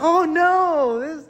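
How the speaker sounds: retold alarm, hammed up; distressed cry. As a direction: play the man who just lost the borrowed axe.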